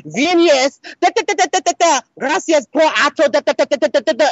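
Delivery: mocking the teacher. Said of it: "her English is bad".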